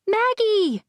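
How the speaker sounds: high frantic call of a name; panicked mother calling her daughter. A narrator's reading. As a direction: shout her name in alarm. Mother calls after thrown daughter.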